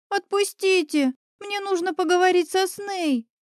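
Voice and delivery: a small witch chirps, struggling to break free; chirping little witch. A narrator's reading. Little witch chirps high while caught by the collar. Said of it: "защебетала она".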